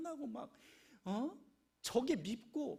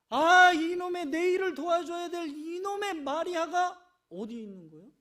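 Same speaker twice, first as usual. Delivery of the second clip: loud, higher exasperated outburst; Martha's anger; 6 semitones higher, 14 dB louder than usual. Retold or imitated. Martha fuming about Mary, loud and high. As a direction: fume at the missing sister. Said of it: "막 화가 나는 거요".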